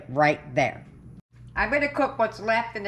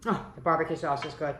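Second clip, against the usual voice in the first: licking fingers; 4 semitones lower, 4 dB quieter, faster than usual. Real, not acted. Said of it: "I'm so busy licking my fingers".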